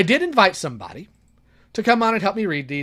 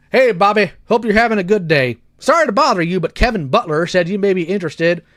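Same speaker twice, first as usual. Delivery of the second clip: a louder attempt to sound like the message writer; matching his voice; 3 semitones higher, 4 dB louder than usual. Reading Aaron's message to Bobby, trying to match Aaron's voice. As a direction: reads the message as Aaron would say it, not mocking. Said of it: "I'm gonna try to actually match his voice".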